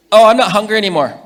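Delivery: high, loud and laughing; voicing the daughter with a laugh; laughing child voice. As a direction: giggle through the girl's answer.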